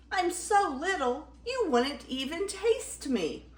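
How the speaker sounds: small, high-pitched pleading voice; squeaky baby goat. Acted. Baby Gruff pleading he is too small, squeaky. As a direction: squeak your excuse up high. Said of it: "he squeaked".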